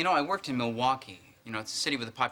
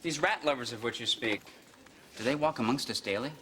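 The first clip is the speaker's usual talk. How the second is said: sarcastic. Acted. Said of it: "doesn't mean I don't understand sarcasm".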